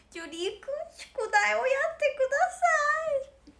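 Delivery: high, loud cute telling-off; impression of コノア. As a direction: squeak it out like a bossy little sister. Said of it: "これです".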